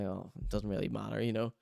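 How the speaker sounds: low, soft, brushing it off; dismissive murmur. Retold or imitated. A hint of waving off an apology, soft and low. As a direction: shrug it off gently. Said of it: "I was like".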